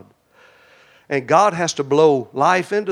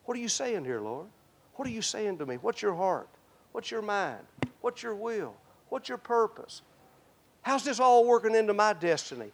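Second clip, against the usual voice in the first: hushed, softer questions to the Lord; quiet prayer; 4 semitones higher, 8 dB quieter than usual. Pretend. A believer softly asking God what he's saying. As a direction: ask softly, listening for an answer. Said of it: "what he's saying".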